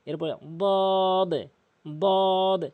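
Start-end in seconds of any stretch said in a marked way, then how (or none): 1.9-2.6 দদ heavy and drawn out, tongue side on upper gums; tongue-edge dad. Shown as a demonstration. Teacher showing the letter, long heavy দদ. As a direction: press tongue edge to molars and hold দদ. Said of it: "জিহ্বার গোড়ার কিনারা".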